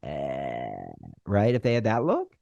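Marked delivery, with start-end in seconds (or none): 0.0-0.9 doubtful eh. Retold or imitated. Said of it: "this look on their face".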